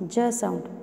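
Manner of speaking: "J" voiced as a short "juh"; J sound demo. Shown as a demonstration. Teacher showing children how the sound comes, "J" as juh. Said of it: "how the sound comes".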